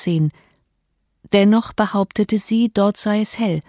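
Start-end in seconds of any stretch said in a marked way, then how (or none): none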